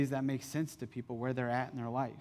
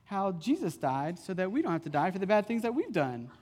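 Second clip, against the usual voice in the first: daughter's bright explanation; 5 semitones higher than usual. Retold or imitated. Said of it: "She's like".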